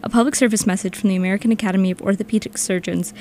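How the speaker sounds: a hint of a goofy voice-actor read. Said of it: "let me do the P S A in a voice actor voice".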